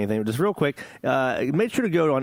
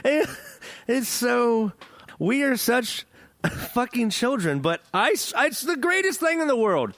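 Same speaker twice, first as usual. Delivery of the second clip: laughing; 9 semitones higher, slower than usual. Real, not acted. Still laughing after the video.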